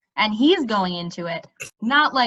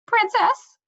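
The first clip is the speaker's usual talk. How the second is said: sudden realization; 12 semitones higher than usual. A narrator's reading. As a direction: blurt it out as it suddenly hits him.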